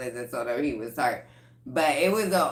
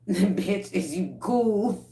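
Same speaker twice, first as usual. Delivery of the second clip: wary check-in; 3 semitones higher, slower than usual. Retold or imitated. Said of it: "she got that "bitch, is you cool" ass energy".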